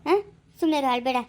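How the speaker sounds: low, motherly coaxing; soothing. Acted. Mother offering to feed a crying girl, soothing. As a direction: comfort a child who is crying.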